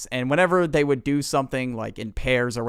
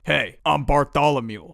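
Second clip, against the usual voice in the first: put-on suave older voice. Bartholomew introduces himself to Alex, in too grown-up a voice. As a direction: introduce yourself in a mock grown-up voice. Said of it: "It did not sound like that".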